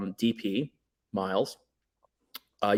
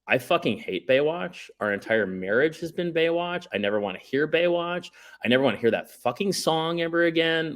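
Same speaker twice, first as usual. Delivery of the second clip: higher-pitched imitation of a fed-up wife; mock wifely exasperation in a raised pitch; exasperated wife; 7 semitones higher than usual. Voicing his exasperated wife's complaint.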